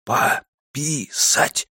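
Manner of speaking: slow stretched-out syllables; slow motion. Acted. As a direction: drag every syllable out. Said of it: "прошептал, растягивая слоги".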